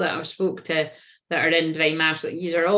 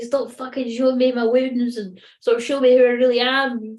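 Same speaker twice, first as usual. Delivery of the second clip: exasperated; 5 semitones higher, 5 dB louder than usual. Acted. Voicing an exasperated twin flame.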